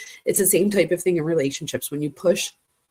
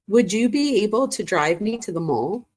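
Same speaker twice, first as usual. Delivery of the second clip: higher, unhurried asking voice; 3 semitones higher than usual. Retold or imitated. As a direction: read the request out with a rising end. Reads out girl's texted request.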